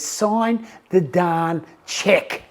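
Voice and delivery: slow, deliberate words; fed-up teller. Retold or imitated. Teller after the bat tap, slowly ordering him to sign. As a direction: spell it out slowly, patience gone. Teller finally loses patience.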